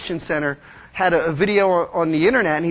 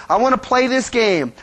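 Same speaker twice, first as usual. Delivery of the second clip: lightly voiced bickering child, higher; a kid demanding their way; a hint of a whiny child; squabbling kids; 4 semitones higher than usual. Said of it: "Kids, right?".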